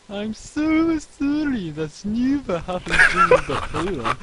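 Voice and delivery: woeful apology. Acted. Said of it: "Stephen said woefully".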